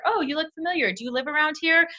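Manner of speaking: high, bubbly stranger-friendly gush; gushing compliment. Retold or imitated. Chatting up the person behind in line, bubbly and high. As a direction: gush over her shoes to spark a chat. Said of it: "Being like".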